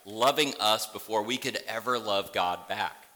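ordinary delivery

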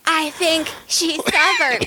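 slow, voiced mock whisper. Daughter answering mom about the cashier, poorly whispered imitation. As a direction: imitate a slow, badly hidden aside. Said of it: "they're whispering about as well as".

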